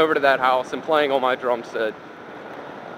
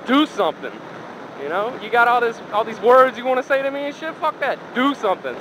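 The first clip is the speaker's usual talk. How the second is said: daring challenge; 7 semitones higher than usual. Retold or imitated. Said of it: "my only response to him was".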